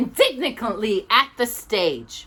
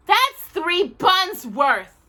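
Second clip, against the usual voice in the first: slow, high aggrieved complaint; a hint of a grumbling bear; bitter; 11 semitones higher, 5 dB louder, much slower than usual. A narrator's reading. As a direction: drag it out, hard done by. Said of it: "he said bitterly".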